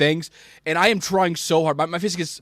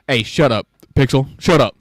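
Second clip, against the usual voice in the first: scolding the dog; 3 semitones lower, 5 dB louder than usual. Real, not acted. Scolding the dog mid-story.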